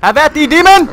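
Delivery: high, loud mock-heroic battle cry; bold swashbuckling bravado. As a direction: declaim like a gallant knight.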